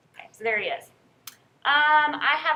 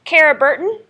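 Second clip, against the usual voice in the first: louder, higher name call; projected roll-call voice, pitched up; 4 semitones higher, 11 dB louder than usual. Real, not acted. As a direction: call the name out across a classroom. Calling roll to a class.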